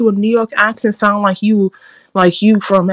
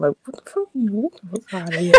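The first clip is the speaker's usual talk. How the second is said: real New York accent, trailing softer; New Yorker's accent, dropping low at the end; 3 semitones lower, 12 dB quieter than usual. Real, not acted. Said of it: "that New York accent".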